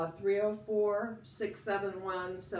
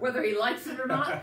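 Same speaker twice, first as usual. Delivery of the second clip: laughing; 6 semitones higher, 7 dB louder, faster than usual. Real, not acted. Teasing about Ken, laughing.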